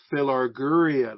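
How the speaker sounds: Philarguria said slowly, fee-lar-goo-REE-a; teacher sounding out Philarguria; slow Greek word. Shown as a demonstration. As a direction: spell out Philarguria syllable by syllable. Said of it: "the love of money".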